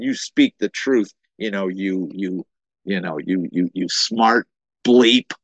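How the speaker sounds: retold anger, stumbling over "you"; mildly mad. King Ahab rebuking the sarcastic prophet, mildly mad. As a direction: sputter in mock anger, leaning on the final insult. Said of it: "Ahab gets mad at him".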